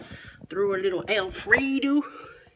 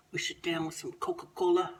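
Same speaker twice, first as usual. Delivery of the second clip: whispering; 5 dB quieter than usual. Acted. Whispered narration.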